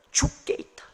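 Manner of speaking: 죽게 있다 whispered with no voice. Acted. Pastor leading a hushed sung declaration. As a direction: breathe it out softly. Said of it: "노래하는".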